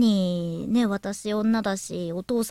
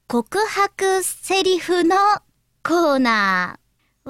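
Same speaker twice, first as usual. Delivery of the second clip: announcer voice; 8 semitones higher, 5 dB louder, much slower than usual. Real, not acted. Announcing a new radio corner.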